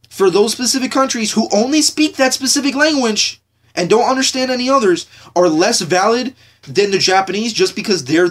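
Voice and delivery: annoyed rant. Real, not acted. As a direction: build an exasperated challenge into a high-pitched dismissal. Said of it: "I'm sorry I'm ranting here".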